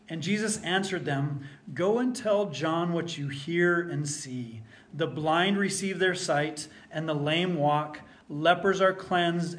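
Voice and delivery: scripture reading. Acted. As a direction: proclaim the text to the congregation. Reads Matthew aloud to congregation.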